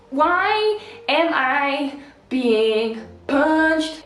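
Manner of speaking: drawn-out comic indignation; mock bewilderment. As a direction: spell out the question word by word, baffled. Acts out own bewilderment.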